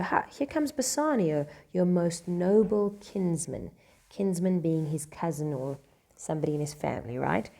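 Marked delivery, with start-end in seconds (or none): 0.0-3.7 announcing arrival. Acted. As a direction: announce the guest grandly. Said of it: "they change the subject and they go".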